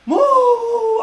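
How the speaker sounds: high, loud shout at a pushing crowd; yelling, shoving through; shouting move. Retold or imitated. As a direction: bark it over the crowd noise. Acting out shoving crowd moment.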